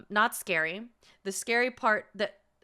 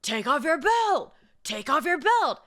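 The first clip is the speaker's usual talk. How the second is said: loud, higher mock order; imitating a barking guard; 5 semitones higher, 5 dB louder than usual. TSA guard yelling at a confused traveler, mock angry. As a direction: bark the order at the old man. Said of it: "the T S A young guy was like".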